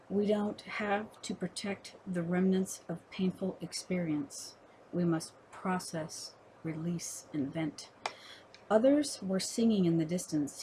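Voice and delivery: measured poem recital with pauses between phrases; poetry reading. Acted. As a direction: read it as verse, line by line. Reads own poem aloud.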